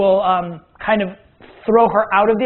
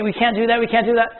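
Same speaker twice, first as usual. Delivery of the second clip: mock freak-out; 3 semitones higher than usual. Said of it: "the girls freak out, go crazy".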